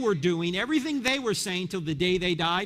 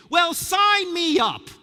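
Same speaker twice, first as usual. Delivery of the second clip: sarcastic eagerness; 6 semitones higher, 8 dB louder, slower than usual. Pretend. Mock enthusiasm for getting killed.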